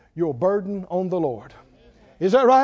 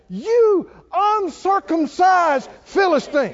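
much higher, slow, ringing cry; bold David defiance; 10 semitones higher, 5 dB louder, slower than usual. Retold or imitated. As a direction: hurl the insult at the giant. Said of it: "What did David say?".

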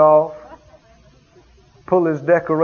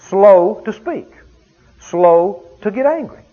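slow emphasis; 4 dB louder, slower than usual. Shown as a demonstration. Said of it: "quoting scripture slowly".

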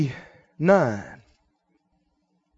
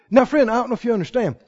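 ordinary talk, nothing marked

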